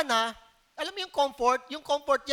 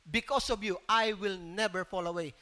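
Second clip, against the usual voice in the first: quoting Peter; 4 semitones lower, 4 dB louder than usual. Retold or imitated. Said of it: "sabi ni si Peter nagsalita".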